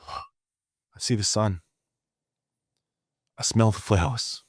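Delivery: slow peaceful noticing; calm grounding. Retold or imitated. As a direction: say it slowly as if just took a breath. Jerry calming down, breathing.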